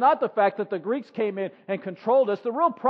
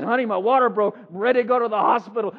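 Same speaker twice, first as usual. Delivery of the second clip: wife voiced; 5 dB louder than usual. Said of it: "She says".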